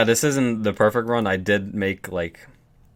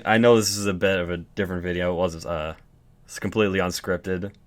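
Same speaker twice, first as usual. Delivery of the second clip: shaking voice. Real, not acted. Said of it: "which is why my voice might be shaking".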